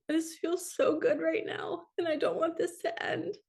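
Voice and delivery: high tearful voice, slowing at the end; crying. Retold or imitated. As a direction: overcome with joy, tearfully savoring it. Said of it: "crying, going".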